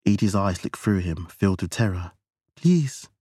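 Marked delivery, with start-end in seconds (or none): 2.6-3.1 high, frightened plea, forced out; terrified, straining. Acted. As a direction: squeeze the word out in terror. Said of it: "struggling to force out the words".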